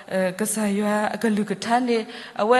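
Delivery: slow demo. Shown as a demonstration. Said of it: "สเตรส".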